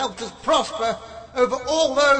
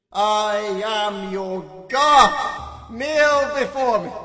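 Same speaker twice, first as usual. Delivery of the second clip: slow, loud divine proclamation; booming god voice; 6 dB louder, much slower than usual. Acted.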